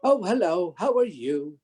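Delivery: high, wonder-struck young boy impression; Warwick Davis. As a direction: gush like an amazed, polite kid. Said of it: "you know, wonderment of".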